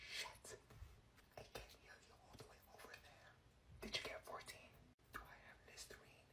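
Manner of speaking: hushed classroom whisper. Acted. Students whispering during a test, secretive. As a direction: keep it under the teacher's radar.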